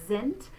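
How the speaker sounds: "Sind" starting on a buzzed z. Shown as a demonstration. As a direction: say "Sind" as zint, short i. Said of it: "say it like a Z".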